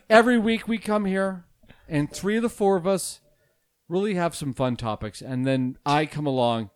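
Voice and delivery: a hint of a grave public apology, played for laughs; mock solemn apology. Host addresses seven listeners in a hushed mock-solemn apology. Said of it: "this is a special message to our listeners".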